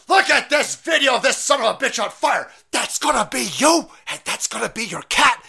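high, loud mock teacher voice building to a shout. Mock teacher yelling at six-year-olds in class. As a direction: play a manic teacher scaring kids.

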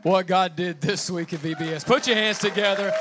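loud rallying hype; rally speech. Real, not acted. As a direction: pump up the crowd, shouting. Pastor rallies congregation.

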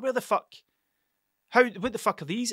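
high, stunned disbelief; can't believe what you've found; shocked disbelief. Retold or imitated. Shocked message to his mate.

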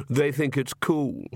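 slow, drawn-out taunt; sneering. Acted. Brother taunts his sister over names, sneering. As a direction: stretch the name mockingly. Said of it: "sneered Vlad".

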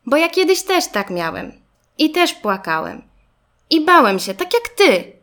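put-on confiding young classmate. A narrator's reading. Garbusek telling Zygzak he cried too, confiding. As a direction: share your own story to comfort.

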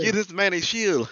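put-on slow, loud, high Wakandan accent; mock-regal Wakandan accent command; movie African accent. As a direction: proclaim it in a hammed-up Wakandan accent. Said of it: "do the accents".

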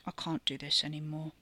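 flat voice around a mouthful; mouth full. Acted. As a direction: say it flatly while chewing. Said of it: "Her voice was flat, even with her mouth full".

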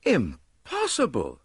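stunned disbelief; shocked, slow exclamation; stupefied cry. A narrator's reading. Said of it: "I cried, stupefied".

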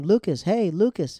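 calling his name. Retold or imitated. Haley calls Lucas on the court, imitated calling out. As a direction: imitate a girl calling out to him. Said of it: "she calls his name".

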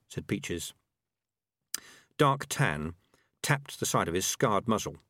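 ordinary delivery

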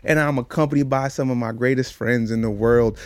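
podcast opening that climbs in pitch and volume; hype host intro. Acted. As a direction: introduce your co-host like a ring announcer. Podcast host's show opening.

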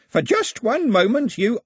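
high, loud, drawn-out triumph; gloating. A narrator's reading. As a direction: keep crowing over him, stretching it out. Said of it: "Ataba hadn't finished gloating".

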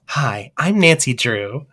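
put-on soft, slow young woman's voice; young Nancy Drew. Shown as a demonstration. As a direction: say it gently like a young girl detective. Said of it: "Which of these sounds more like Nancy Drew".

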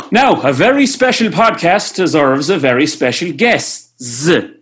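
big showbiz announcer build-up. Acted. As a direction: introduce them like a game show host. Grand showman guest introduction.

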